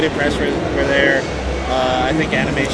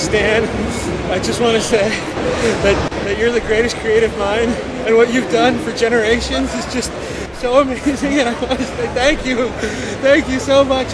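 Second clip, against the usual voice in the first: lightly voiced gushing fan, higher; 6 semitones higher than usual. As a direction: gush over him like a starstruck fan, pitched up. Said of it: "and he says".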